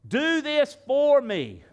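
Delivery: loud, high, insistent begging; hammed-up frantic prayer; mock desperate pleading. Acts out pleading with God about debt.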